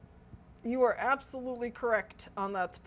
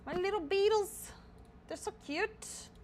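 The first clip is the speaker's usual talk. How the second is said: cutesy high voice; 10 semitones higher than usual. Real, not acted. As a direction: coo over something adorable. Cooing over cute beetles.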